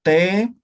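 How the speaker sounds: "T" struck hard on the teeth; dental t. Shown as a demonstration. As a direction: tap a firm "T" with the tongue on the teeth. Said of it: "La dental". ("T" dental, fuerte)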